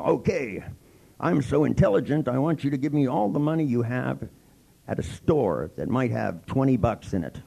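sarcastic swagger of a dim crook; mock dumb robber. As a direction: play the robber as proud of himself.

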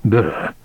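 teeth-chattering brr from the cold; shivering brr. A narrator's reading. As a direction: shiver it out, lips buzzing. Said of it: "He shivered".

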